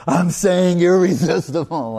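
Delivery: high, loud, exasperated mock insistence; imitated annoyance. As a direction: act out an irritated teacher insisting on the word. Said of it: "like, annoyed with me".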